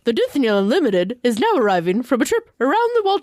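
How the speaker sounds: lightly voiced zany hatter with a lisp; a hint of a lisping, loony gentleman; Mad Hatter. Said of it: "I was the Mad Hatter".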